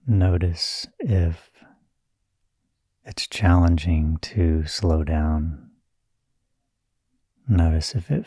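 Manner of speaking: calm, unhurried meditation guiding with long pauses; measured meditation-teacher delivery, phrase by phrase; guided meditation. Real, not acted. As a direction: gently lead them inward, leaving space between phrases.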